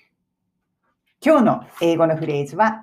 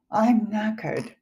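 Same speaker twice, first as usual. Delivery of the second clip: exhausted parents; 3 semitones higher, 4 dB quieter, much slower than usual. Acted. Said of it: "親御さんたちみんな".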